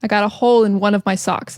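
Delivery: quick run-together native chat; fast casual speech. Shown as a demonstration. Teacher demonstrating fast native speech. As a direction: rattle it off like everyday talk. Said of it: "When we talk fast".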